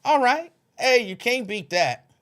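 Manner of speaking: high, loud cheer; excited cheer. Real, not acted. Hyping up a viewer who checked in, loud and high. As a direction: cheer them on, all right.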